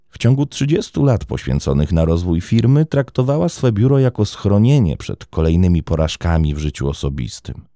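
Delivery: ordinary delivery, nothing marked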